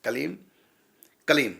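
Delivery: कलीम ending on a half म; pronounced with closing m. Shown as a demonstration. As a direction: close the lips at the end of कलीम. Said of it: "तो ये कहलाएगी".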